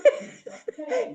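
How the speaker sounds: high teary laugh, half a sob; a laugh that catches on tears; emotional laugh. Real, not acted. Grandmother moved by family visiting, high teary laugh. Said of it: "I'm getting so emotional".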